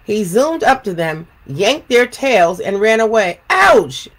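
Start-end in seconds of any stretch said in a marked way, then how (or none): 3.5-4.1 high yelp of pain; horse yelping. Acted. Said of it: "yelled the horse".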